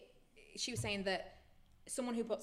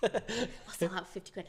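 slower, laughing through the words; laughing joke; 4 dB louder, slower than usual. Real, not acted. Podcast host jokes back at co-host's cheap sponsorship offer, laughing. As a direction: play along with a laugh.

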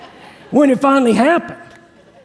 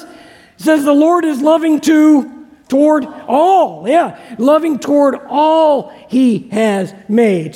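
all stretched and slow; slow, insisting on all; stress on all. Shown as a demonstration. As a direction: lean hard on the word all. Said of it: "Circle the word all".

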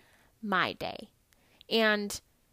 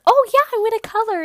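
put-on much higher, louder excited child voice; eager little boy; 11 semitones higher, 11 dB louder, faster than usual. Boy perks up at the chance to color, high excited child voice. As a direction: squeal it like a thrilled kid. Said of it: "He was like".

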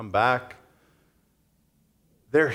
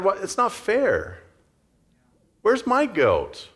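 pouting brother; 6 semitones higher than usual. Retold or imitated. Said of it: "I like to call him the pouting brother".

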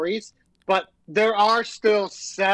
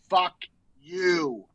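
slow, separated angry sign-off; mad; 3 semitones lower than usual. Real, not acted. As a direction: leave a pause between the words, dropping low on the last. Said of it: "I didn't think I would be this mad".

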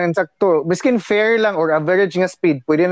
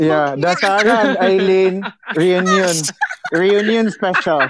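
slow, drawn-out title announcement; playful host announcing a special; mock show announcer; slower than usual. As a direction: introduce a talk show in jest. Jokingly announces the talk show.

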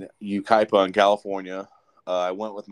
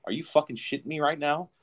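high-pitched retold disbelief; rising, incredulous aside; 7 semitones higher than usual. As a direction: react in mock disbelief. Retelling disbelief at the bus fight.

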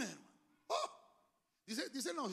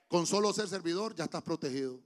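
booming preacher's challenge, slowed down; shouted challenge; 16 dB louder than usual. Real, not acted. Preacher shouting a challenge to the congregation, loud. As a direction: shout it out to rouse the hearers.

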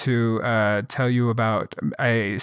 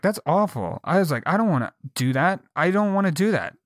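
higher-pitched retold objection; dismayed protest; 6 semitones higher than usual. Employee balking at an auction for dates, dismayed protest. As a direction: plead your way out of it.

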